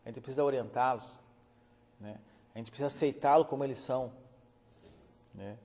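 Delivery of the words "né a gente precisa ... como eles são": normal talking voice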